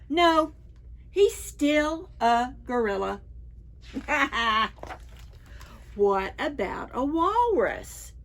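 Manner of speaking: lively, sing-song picture-book reading; reading to children. Acted. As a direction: read it to a room of preschoolers, big and bright. Reads picture book to preschoolers.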